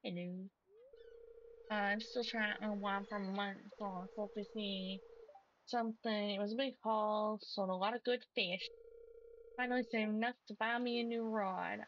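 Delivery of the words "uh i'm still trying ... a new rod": lightly voiced country accent; casual country fisherman telling his news. Fisherman tells the farmer about his haul, in a light country accent. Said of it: "keep giving him country accent".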